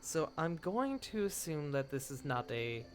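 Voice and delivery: slow, soft knowing hostess; sultry geisha. Acted. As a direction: draw out each word. Gale speaks in character.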